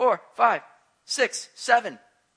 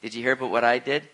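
boastful show-off; 6 semitones higher, 4 dB louder than usual. Pretend. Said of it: "nobody's in heaven saying".

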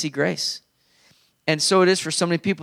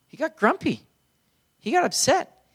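mock grumpy; 10 semitones higher than usual. Mimics brother's grumpy mood.

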